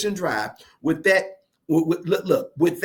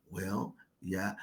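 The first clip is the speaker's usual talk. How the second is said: retold grudging admission; 10 semitones lower, 15 dB quieter than usual. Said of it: "Well, she said".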